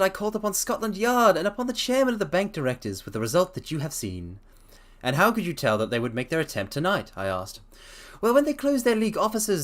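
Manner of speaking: reading a story aloud, lightly voiced Holmes. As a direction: read the detective's explanation steadily.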